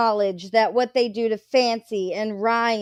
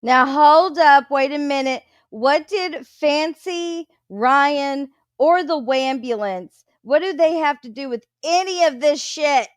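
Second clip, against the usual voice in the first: loud, high disbelief; incredulous outburst; 4 semitones higher, 4 dB louder than usual. Real, not acted. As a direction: stop everything, what?. Reactor stunned by name-dropping.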